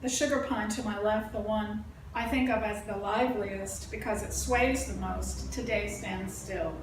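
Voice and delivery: deliberate, evenly paced verse recital; poetry reading. Acted. Poet reading about life in the forest, measured recital. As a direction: recite it with pauses at the line breaks. Reads own poem aloud.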